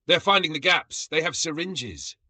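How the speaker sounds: high, breathless alarm; gasping panic. A narrator's reading. Brug feeling insects in his armor, gasping and high. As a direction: blurt it out in horror. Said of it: "He gasped".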